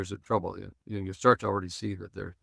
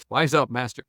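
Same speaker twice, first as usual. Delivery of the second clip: joking disciple; 3 semitones higher than usual. Retold or imitated. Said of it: "it was kind of a joke".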